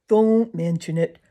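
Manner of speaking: talking through a mouthful; mouth full. Acted. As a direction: say it round a bite of food. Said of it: "replied Drummer with his mouth full".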